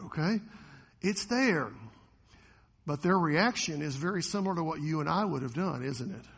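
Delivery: usual speaking voice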